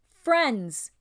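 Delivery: high, loud hail to the crew; kingly address. A narrator's reading. King rises to address his crew, commanding. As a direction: call the company to attention.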